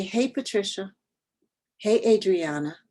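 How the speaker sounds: Patricia and Adriana said with plain English sounds; anglicized names. Shown as a demonstration. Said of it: "you don't say".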